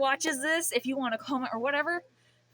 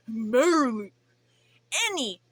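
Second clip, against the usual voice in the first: voice crack; 4 dB louder than usual. Real, not acted. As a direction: voice cracking on the word. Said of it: "the voice crack is crazy".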